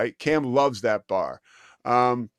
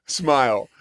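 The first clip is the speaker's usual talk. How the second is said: ordinary talk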